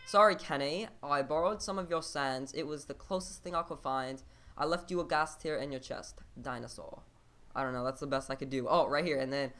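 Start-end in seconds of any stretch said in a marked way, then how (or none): 0.1-0.9 raised, louder amateur British accent. Shown as a demonstration. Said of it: "how am I gonna do a British accent?". 1.0-7.0 amateur attempt at British English; British accent. Shown as a demonstration. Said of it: "how am I gonna do a British accent?".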